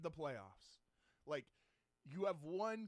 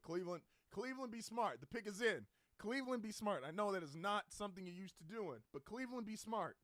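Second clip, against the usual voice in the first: pleading; 3 semitones higher than usual. Real, not acted. Pleading with team during pick.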